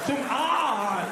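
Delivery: high zoom, then drawn-out ah; comic high sound effect and wail; imitated whoosh and cry. Comic imitating the body recovering, high whoosh and cry. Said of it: "And you go".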